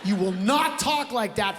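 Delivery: slow, measured scolding; firm, deliberate reprimand; stern teacher. Acted. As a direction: lay down the law word by word. Acted teacher scolding a pupil.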